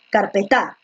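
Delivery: "carpeta" wrongly stressed as carpe-TÁ; stress on last syllable. Shown as a demonstration. Teacher testing where stress falls, "carpeta" stressed on final TA. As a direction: put the weight on final TA of "carpeta". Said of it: "la fuerza de voz está en P".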